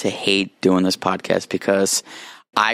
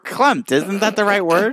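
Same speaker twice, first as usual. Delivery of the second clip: laughing; 11 semitones higher than usual. Real, not acted. Laughing, defending the word.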